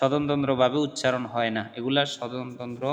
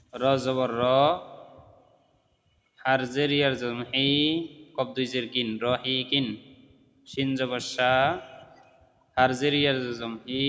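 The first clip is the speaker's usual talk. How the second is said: measured syllable-by-syllable chant with held long vowels; steady Qaida-lesson recitation; spelling drill recitation. Shown as a demonstration. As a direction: spell it out for learners, pausing after each part.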